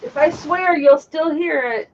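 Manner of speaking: talking from down under the desk; ducking under a table. Real, not acted. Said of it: "That picked you up really good under there".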